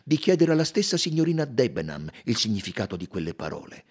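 mildly cool, brisk suggestion; cold. Acted. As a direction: brush him off briskly, a touch cold. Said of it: "disse freddamente il colonnello". (lievemente freddo, sbrigativo)

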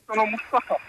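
muffled behind a face mask; speaking through a mask. Real, not acted. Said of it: "scusate perché ho la mascherina".

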